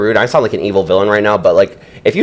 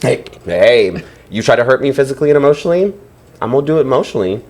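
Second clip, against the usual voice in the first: Petty Betty; 3 semitones higher, faster than usual. Pretend. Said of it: "we have a guest with us today, Petty Betty".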